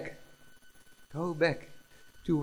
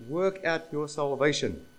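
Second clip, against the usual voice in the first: firm instruction with weight on "Work out"; emphatic command. Shown as a demonstration. Preacher repeating Paul's command, emphatic command. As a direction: deliver "Work out" as a measured order. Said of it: "It's an emphatic command".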